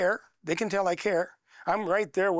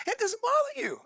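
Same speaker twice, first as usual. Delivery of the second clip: hushed quote. Retold or imitated. Quoting friend, voice drops.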